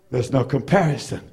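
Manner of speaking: low, soft drop after the cry; hushed after the shout; sudden hush. Real, not acted. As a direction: pull it right down.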